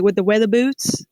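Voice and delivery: a slip into Southern accent. Shown as a demonstration. Retelling a moment the accent slipped out, Southern accent. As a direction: let the Southern accent come out on it. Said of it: "that will really come out".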